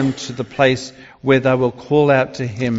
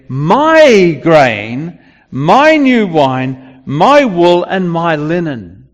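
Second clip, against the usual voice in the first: louder, slow, every item weighed; God's firm declaration; 5 dB louder, much slower than usual. Acted. Preacher voicing God reclaiming his gifts, loud and slow. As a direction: proclaim it as God taking back. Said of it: "God is speaking here".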